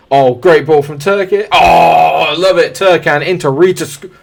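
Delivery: loud, high cheer as the attack builds; excited commentary. Real, not acted. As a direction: call the goal chance with rising excitement. Live goal build-up in game.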